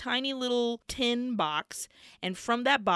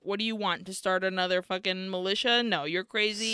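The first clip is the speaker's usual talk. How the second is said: judgmental. Retold or imitated. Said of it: "very judgmentally, is like".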